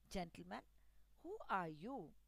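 calm him with a gentle question; soothing words to a frightened stranger; comforting. Acted. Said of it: "in a comforting voice".

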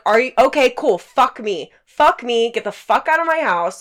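exasperated retold rant; retold losing it. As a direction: reenact blowing up at a houseguest. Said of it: "I just lost my shit".

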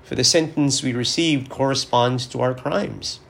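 formal, measured scripture reading; gospel reading. Acted. Priest reading Luke's gospel to listeners, formal and solemn. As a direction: read the passage with solemn care.

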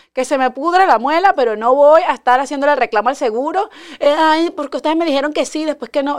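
indignant, quick complaint; exasperated rant. Retold or imitated. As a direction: throw up your hands at the insurer. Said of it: "Yo digo".

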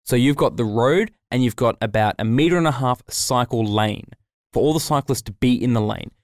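ordinary talk

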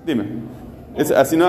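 normal talking voice

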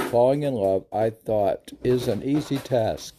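lilting spoken verse; verse recitation. Acted. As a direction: recite it as poetry in measured phrases.

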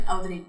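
"Audrey" split as "au-drey"; separated syllables. Retold or imitated. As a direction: say "Audrey" with the au set apart. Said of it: "le pone como que separación".

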